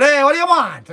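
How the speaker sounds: high, loud mock shout; yelling back. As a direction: call out across the yard, annoyed.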